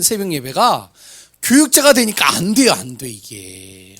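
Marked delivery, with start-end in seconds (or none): 1.4-2.7 higher and louder, frustrated cry; exasperated outburst. Retold or imitated. Preacher's rising frustration. 2.7-4.0 softer, slow resigned mutter; deflated slow mutter. Retold or imitated. Deflated after outburst.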